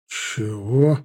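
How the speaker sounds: incredulous. A narrator's reading. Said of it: "переспросил недоверчиво доктор".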